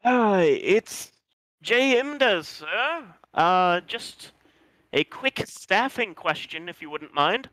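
high, fawning servant; bow and scrape politely. Acted. Innkeeper knocking, polite servant voice.

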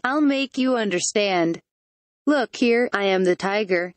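usual speaking voice

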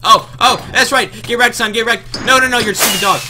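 high, loud gloating; triumphant yelling. Real, not acted. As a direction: crow over the beaten rival. Landing the winning hits.

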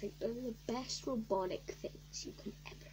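hushed whisper. Real, not acted. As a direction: whisper it close. Whispering to viewers.

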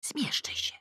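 whispered, convincing; whispered assurance. Acted. Mother whispering back to her daughter, convincingly. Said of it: "zapewniam przekonująco".

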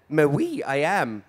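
lightly put-on French "Mais oui" with airs; mock French accent. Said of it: "Why do you have a French accent?".

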